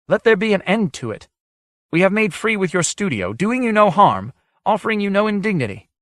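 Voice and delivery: put-on high, otherworldly old sage; ancient sage voice. A narrator's reading. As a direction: speak as an ancient hermit whose words ring in the mind. Demi voiced throughout.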